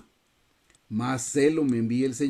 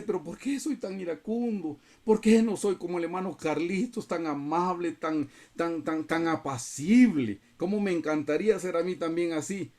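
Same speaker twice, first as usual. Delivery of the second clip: lightly acted wistful complaint; mock lament; 3 semitones higher than usual. Churchgoer envying gentle brother Carlitos, mildly lamenting. Voices a listener's complaint about himself.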